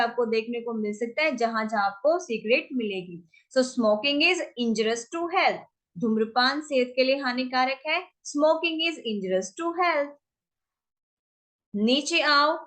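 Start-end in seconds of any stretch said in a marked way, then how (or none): 3.5-5.6 each word laid out slowly for learners; slow clear demo reading; slow model sentence. Shown as a demonstration. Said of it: "teacher models English sentence". 8.3-10.1 each word laid out slowly for learners; slow clear demo reading; slow model sentence. Shown as a demonstration. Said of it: "teacher repeats model sentence".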